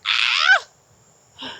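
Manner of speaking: excited. Real, not acted. Celebrating hiking milestone.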